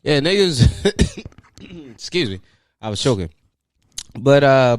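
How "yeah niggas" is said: hype shout. Acted. Mock greeting to listeners.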